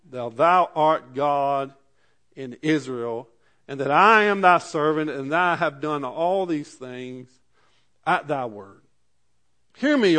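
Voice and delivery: slow, solemn prayer with drawn-out words; Elijah's prayer. Acted. Elijah calls on God before the people, slow earnest prayer. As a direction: pray it slowly, swelling on key phrases. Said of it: "Now listen to Elijah's prayer".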